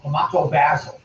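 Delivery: tomato basil as tuh-MAH-toe BAZ-ul; "ah" in tomato, short "a" in basil; British tomato basil. Shown as a demonstration. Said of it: "you say basil".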